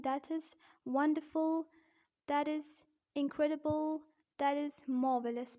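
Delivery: British demo, Rs dropped in wonderful and marvelous; careful non-rhotic British accent; British-accent praise examples. Shown as a demonstration. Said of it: "in British accent".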